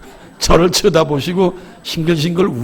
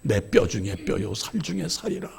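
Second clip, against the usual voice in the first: softer, lower, reverent quoting of Adam; hushed scripture verse, half to himself; tender recitation; 7 semitones lower, 8 dB quieter than usual. Shown as a demonstration. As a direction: murmur it like a vow to your bride. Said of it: "아담의 고백처럼 사랑하세요".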